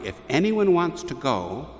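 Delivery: lightly acted loud declaration; retold loud defiance. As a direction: retell a girl standing her ground. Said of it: "she says very loudly".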